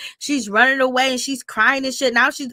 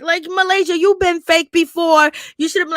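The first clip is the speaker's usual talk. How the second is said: higher and louder, calling her out; exasperated scolding; 6 semitones higher, 4 dB louder than usual. Real, not acted. Scolding Malaysia over faking it, raised and loud. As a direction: call Malaysia out, half laughing at her.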